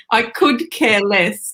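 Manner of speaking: slow phrase with weight on "could"; stress on could. Retold or imitated. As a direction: lean on "could", drawing the phrase out. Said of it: "you actually could care less".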